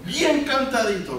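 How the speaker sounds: lilting high singsong on bien cantadito; crooning sweetly to the wife. Shown as a demonstration. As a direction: say bien cantadito like a little tune.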